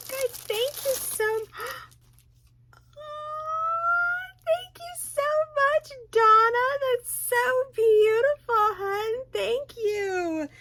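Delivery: high, tearful, voice breaking with emotion; choked-up thank you through tears; real overwhelmed crying. Real, not acted. Overwhelmed opening birthday gifts.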